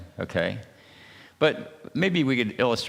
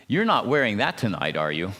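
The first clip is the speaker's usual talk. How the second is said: mock scolding mother. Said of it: "that's a mother talking to her, her child".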